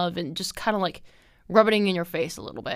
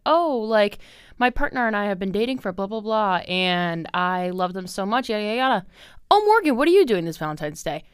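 gushy coworker impression; 2 semitones higher, 3 dB louder than usual. Mocking coworkers bragging then asking.

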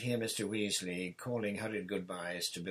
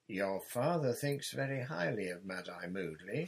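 stern; 5 dB louder than usual. Acted. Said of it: "Missus Weasley sternly".

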